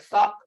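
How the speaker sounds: THUCK with both consonants sounded; both consonants pronounced. Shown as a demonstration. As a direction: say "thuck" firmly, giving each consonant its sound. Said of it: "you have to pronounce both of".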